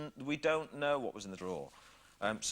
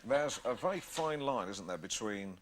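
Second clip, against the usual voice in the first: a hint of a pompous chat-show host; Alan Partridge; 2 semitones lower than usual. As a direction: needle the guest with mock-earnest concern. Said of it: "He might say something like".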